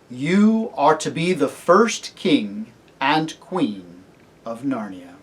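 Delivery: measured, majestic pronouncement; solemn kingly lion. Acted. Aslan crowning the cabbie and his wife, solemn.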